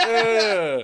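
hammed-up action-pose grunt; mock grunt. Voicing the man on the imagined poster, mock grunt. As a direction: grunt it out through a laugh.

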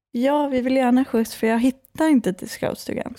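speaking with a Stockholm accent. Real, not acted. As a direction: Stockholm dialect, as she talks today. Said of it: "hade du sån Stockholmsdialekt?".

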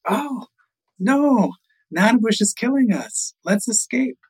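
high-pitched cry of alarm; alarmed little bird. Acted. Little bird warns the others.

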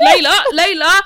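high, loud helpless calling for Layla; mock helpless call. Brother calling Layla for help, mock helpless. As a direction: whine her name like a stuck brother. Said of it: "Malik's just like this".

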